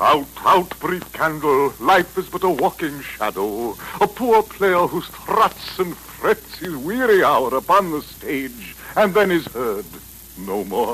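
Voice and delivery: slow, theatrical verse reading; Shakespeare recitation. Acted. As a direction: declaim it like an old stage actor. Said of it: "I was quoting".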